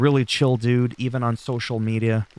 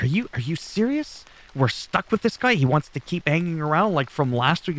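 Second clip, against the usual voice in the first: mock exasperation; 5 semitones higher than usual. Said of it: "he's like".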